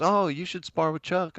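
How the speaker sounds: egging on. Retold or imitated. Godfather eggs him on.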